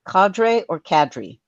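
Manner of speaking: cadre said slowly two ways, first KAH-dray then KAD-ree; two pronunciations of cadre. Shown as a demonstration. Narrator shows colleagues both cadre pronunciations, slowly. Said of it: "let me see if I get this right".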